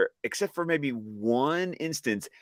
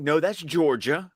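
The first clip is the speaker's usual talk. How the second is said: put-on Southern accent; 5 semitones higher than usual. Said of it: "make it sound like we're Dixie Carter".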